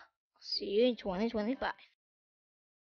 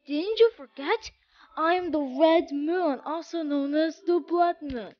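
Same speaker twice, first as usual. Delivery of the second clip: lightly sinister villain voice, a bit raised; evil voice; 3 semitones higher than usual. Acted. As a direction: play a hint of a menacing Blood Moon. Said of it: "evil voice or whatever".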